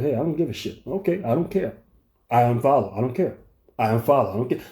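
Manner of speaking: a mock calm, collected brush-off. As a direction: say it like you truly don't care, even and soft. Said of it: "He didn't respond from a calm, collected".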